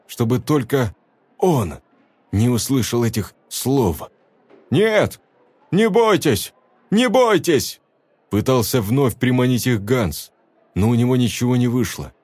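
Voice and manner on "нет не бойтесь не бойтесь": high coaxing call; coaxing cry of reassurance. A narrator's reading. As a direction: lure them out gently but high. Hans calls out to people.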